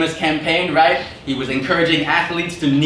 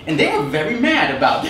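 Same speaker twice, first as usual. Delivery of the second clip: normal talking voice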